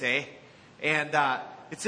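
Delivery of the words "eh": a light Canadian "eh?" tag with a small rise. Shown as a demonstration. Pastor showing the congregation how Canadians talk, light Canadian accent. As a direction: toss off a mild Canadian "eh?". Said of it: "where they talk like this".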